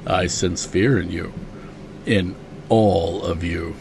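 low, slow, soft menacing Vader; lightly voiced Vader, slow and hushed; Vader impression. Host quoting Vader to the listeners, low and slow.

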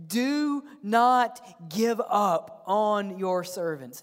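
slow, drawn-out plea; preacher voicing a desperate appeal; crying out in appeal. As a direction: cry out each word slowly, imploring. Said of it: "the Gibeonites cried out".

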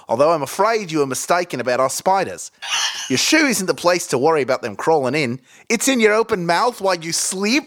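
ordinary talk, nothing marked

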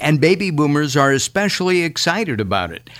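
loud, quick pitchman read. Acted. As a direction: sell it like a radio spot. Host reads live ad.

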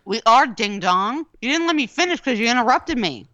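talking with a mouthful; mouth full. Real, not acted. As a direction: speak through a mouthful of food. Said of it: "stop talking with your mouth full".

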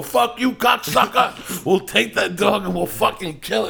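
roaring insults at full volume, pitch flying high; furious shout. Retold or imitated. Friends yelling threats at a stranger with a dog, screaming loud. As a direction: yell it across the street to pick a fight.

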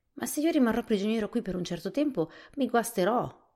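loud, high-pitched protest. A narrator's reading. Jack protesting loudly to the Scarecrow. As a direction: push back loudly, a bit alarmed. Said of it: "protestò Jack".

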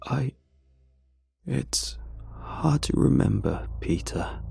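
breathy sighed whisper, trailing off; sighing whisper. Acted. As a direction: sigh it out, barely voiced. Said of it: "sighs Tommy the Train".

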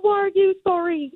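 a hint of a singer asking, bemused; a puzzled singer. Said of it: "she's like".

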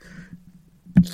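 high, loud tearful plea; crying to mom. Retold or imitated. Grown daughter still crying to her mom in the road, high wail. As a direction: wail it like a kid. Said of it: "I'm like".

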